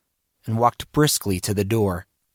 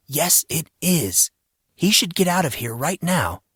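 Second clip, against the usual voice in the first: insistent self-argument; 6 semitones higher than usual. A narrator's reading. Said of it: "He was arguing with himself".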